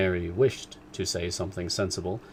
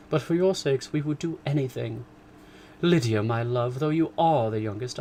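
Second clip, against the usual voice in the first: higher, louder effusive mother; mother praising to the girls; mother telling daughters about the father; gushing mother; 4 semitones higher, 4 dB louder than usual. Acted. Mrs Bennet voiced.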